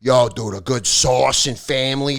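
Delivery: put-on Italian-American accent. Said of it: "like, Italians".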